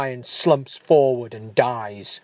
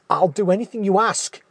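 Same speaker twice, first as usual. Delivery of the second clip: desperate promise; 7 semitones higher, faster than usual. Acted. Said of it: "he promises".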